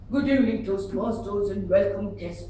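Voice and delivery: lightly imitated American accent; half-hearted mock American greeting. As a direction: mimic children putting on an American style. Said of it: "Like some American style".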